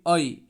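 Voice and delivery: ए said as "अई", अ running into ई; ए as a glide. Shown as a demonstration. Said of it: "इस तरह से प्रयोग करेंगे".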